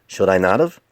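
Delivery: cheeky, defiant back-talk; smart aleck. Acted. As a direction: sass the boss with a snippy question. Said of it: "adopted a smart aleck tone".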